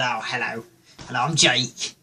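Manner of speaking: mock-posh English greeting; lightly imitated posh drunk self; posh accent. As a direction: introduce yourself in a put-on upper-class accent. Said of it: "I talk posh".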